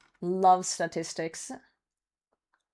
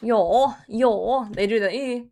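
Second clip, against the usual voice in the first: mock whiny Swedish; 2 semitones higher, 4 dB louder, slower than usual. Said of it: "sound like they're whining".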